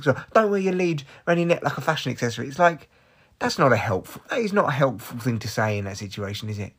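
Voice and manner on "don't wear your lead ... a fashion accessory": mock sarcastic quote.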